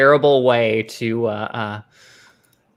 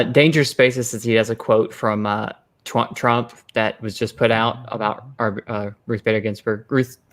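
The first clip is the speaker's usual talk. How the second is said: talking through fake fangs; lisping around plastic fangs; wearing vampire fangs. Real, not acted. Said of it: "I cannot say her name with these fangs in".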